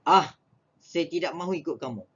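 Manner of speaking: fast, dismissive refusal; a touch of stubborn rejection; refusing. Shown as a demonstration. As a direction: brush the offer off quickly. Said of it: "menyatakan tidak setuju atau menolak".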